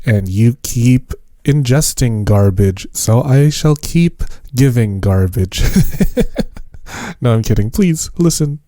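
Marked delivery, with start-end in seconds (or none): 5.7-7.2 high airy giggle; breathy laugh. Real, not acted. Laughs at own garbage joke.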